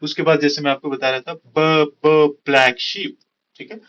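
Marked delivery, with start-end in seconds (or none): 1.3-3.1 stretched "buh, buh" leading into black sheep; isolated b sounds. Shown as a demonstration. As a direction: slowly punch each b before "black sheep". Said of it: "ब is repeating".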